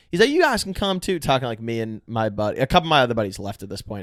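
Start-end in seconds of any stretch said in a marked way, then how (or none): 0.3-1.2 Southern gentleman. Retold or imitated. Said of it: "a Southern gentleman".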